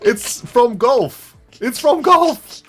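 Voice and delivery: high, slow words through laughter; laughing. Real, not acted. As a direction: explain it while cracking up. Laughing while explaining the word.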